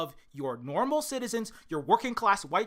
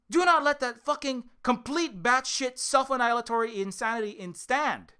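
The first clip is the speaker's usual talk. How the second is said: urgent warning; 4 semitones higher, 3 dB louder than usual. Real, not acted. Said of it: "urgent warning".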